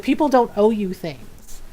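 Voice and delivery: lightly voiced stern mom; a hint of mom telling someone off. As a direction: retell it like a scolding mother. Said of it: "I got the mom voice".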